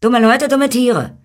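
very high, loud, jeering insult; scornful little man. A narrator's reading. Little man adds an insult for people and animals, high and scornful. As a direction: taunt them as a sneering little sprite. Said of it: "sagte die Stimme höhnisch".

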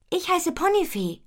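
high, lifted, friendly voice; friendlier introduction. A narrator's reading. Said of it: "sagt Ponifee freundlicher".

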